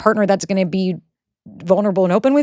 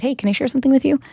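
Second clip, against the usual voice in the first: higher-pitched, inviting question; considerate opener; 5 semitones higher, faster than usual. Shown as a demonstration. Partner opening a hard conversation, considerate. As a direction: model a careful way to raise something. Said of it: "there's a way to say it".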